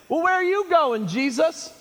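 high-pitched questioning call; puzzled disciples. Acted. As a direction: lightly play bewildered followers calling after their leader. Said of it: "I can imagine the disciples saying".

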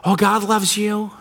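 syrupy, slowed-down fake comfort; mock a saccharine church cliché; a hint of sugary preacher parody; mock happy talk. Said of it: "a little happy talk".

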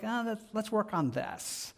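a hint of a patient, kind helper; gentle inviting voice. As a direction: invite them kindly to work on it. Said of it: "Always his voice is like".

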